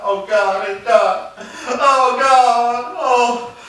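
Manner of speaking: a mild mock lament; grieving father. Master grieves at bedside.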